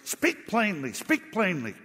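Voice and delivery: barked order. Retold or imitated. Putin barks at his stammering advisor, mock angry. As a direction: snap the order like an angry president. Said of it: "He just barked at him".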